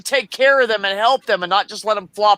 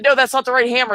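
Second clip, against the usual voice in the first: mock scolding; 6 semitones higher, 4 dB louder, faster than usual. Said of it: "he said".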